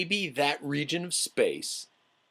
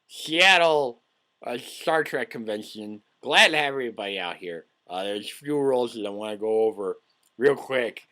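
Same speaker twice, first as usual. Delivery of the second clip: convention host; 2 semitones higher, 4 dB louder than usual. Pretend. Plays Star Trek convention host.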